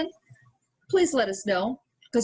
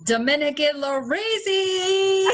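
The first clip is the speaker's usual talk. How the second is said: put-on Dominican accent; 6 semitones higher, 4 dB louder, slower than usual. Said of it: "I don't even know how to do a Dominican accent".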